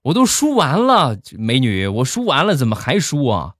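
high-pitched start, settling into puzzlement; acted baffled patient; bewildered protest. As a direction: object in mock disbelief. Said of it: "我一脸懵逼啊".

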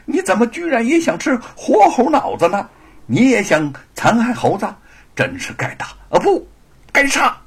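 loud, high furious rebuke. Acted. Scholar furiously rebuking the monkey-brain thief, loud rage. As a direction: explode in rage at him. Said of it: "吴承恩闻言大怒".

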